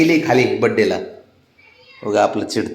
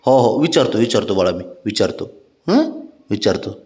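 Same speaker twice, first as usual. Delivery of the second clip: soothing; 4 semitones lower than usual. Real, not acted. Promising the child he will ask mother, soothingly.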